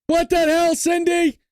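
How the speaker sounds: indignant disbelief. Real, not acted. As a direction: protest at the betrayal. Indignant at chat results.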